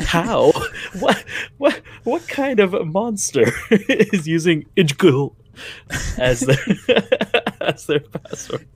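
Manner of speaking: high, laughing disbelief; incredulous. Retold or imitated. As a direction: squeal in mock outrage. Mocking Best Buy's password rule.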